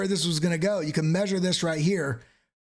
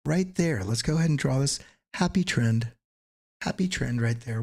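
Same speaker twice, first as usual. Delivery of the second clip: lightly imitated TV painter, pitched lower; a hint of a painting-show host's lilt; Bob Ross; 3 semitones lower, faster than usual. Streamer drawing happy trend lines, lightly imitated TV painter. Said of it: "My Bob Ross, I don't know".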